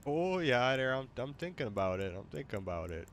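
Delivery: put-on soft, playful Wisconsin accent; mock Wisconsin accent. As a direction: quietly put on a Wisconsin lilt. Copies the assigned Wisconsin accent.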